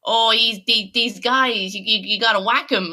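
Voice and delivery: a light mock New York tough-guy accent. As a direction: lightly do a New York mobster giving advice. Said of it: "my favorite New York accent I've heard in years".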